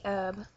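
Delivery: "herb" as "erb"; silent H. Shown as a demonstration. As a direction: begin "herb" on the vowel, no H. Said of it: "we don't say the H".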